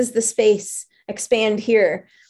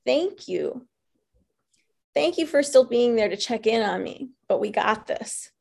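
gentle thanks; 5 dB quieter than usual. Retold or imitated. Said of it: "this voice says".

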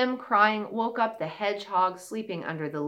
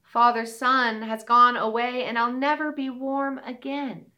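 shy fawn voice; 3 semitones higher, 4 dB louder than usual. Acted. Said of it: "said the deer".

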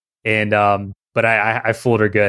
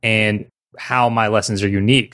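usual speaking voice

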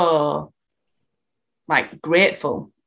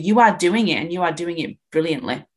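reassuring. Retold or imitated. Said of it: "My job's just to say to you".

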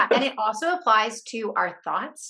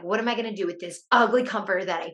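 angry; 6 dB louder than usual. Retold or imitated. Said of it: "I'm, like, angry".

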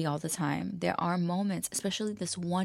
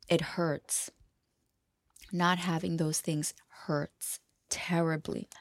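whispered hurt; slower than usual. Real, not acted.

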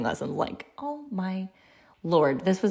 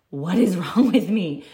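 rueful laugh; 3 dB louder than usual. Retold or imitated. Crying spell retold, asks herself.

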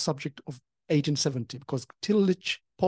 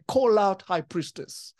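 commanding call; 7 semitones higher, slower than usual. Retold or imitated. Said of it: "I heard God say".

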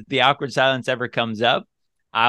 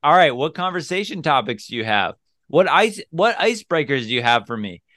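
smiling tease. Retold or imitated. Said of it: "And I'll say it just like that".

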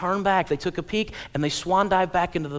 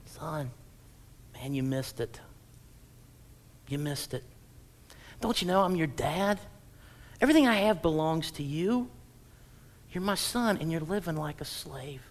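soft, gentle fatherly plea; tender father; 6 dB quieter than usual. Acted. Preacher voicing the loving father to his son. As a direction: lovingly correct your son, much softer. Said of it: "his dad in love is just shaking his head saying".

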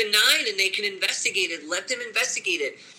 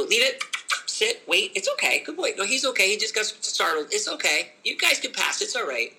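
calm dog handling; 2 semitones higher than usual. Shown as a demonstration. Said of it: "As opposed to".

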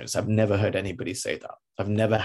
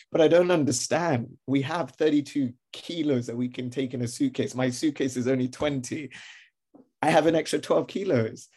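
higher-pitched insistent plea; protesting; 4 semitones higher than usual. Acted. Traveller disputing baggage fee with agent, protesting. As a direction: argue the case, a touch whiny.

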